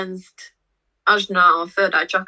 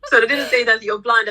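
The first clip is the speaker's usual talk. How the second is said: laughing denial; 4 semitones higher than usual. Real, not acted. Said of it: "laughing denial".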